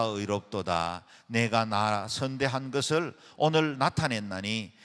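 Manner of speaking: loud, steady unison reading of the Bible; group scripture reading. Acted. A congregation reading the Samuel passage aloud in unison, loud and steady. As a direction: read it out together, firm and measured.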